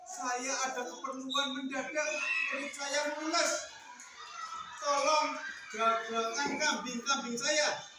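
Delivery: goatherd's hammed-up urgency; panicked plea. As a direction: beg for help in mild panic. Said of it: "penggembala kambing kan panik".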